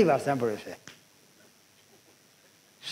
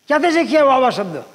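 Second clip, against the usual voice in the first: raised, louder angry question; angry demand; 5 semitones higher, 5 dB louder than usual. Retold or imitated. Uncle slaps the boy and demands, angry raised voice. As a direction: demand it high and loud after the slap. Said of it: "તમાચો માર્યો".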